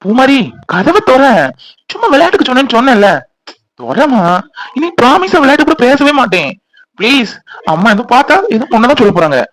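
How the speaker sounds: pleading. Acted. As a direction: beg to be let back in. Locked-out husband begs to be let in. (கெஞ்சும் குரலில்)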